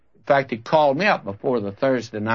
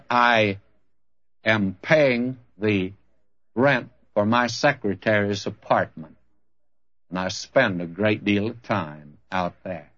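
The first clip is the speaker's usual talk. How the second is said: understated, low confession with heavy pauses; retold tearful confession; 4 semitones lower than usual. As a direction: imitate a broken man confessing haltingly. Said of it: "In fact, he wept".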